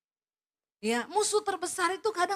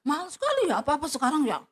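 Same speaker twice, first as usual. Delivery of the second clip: grumbling husband; faster than usual. Retold or imitated. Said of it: "pulang marah-marah".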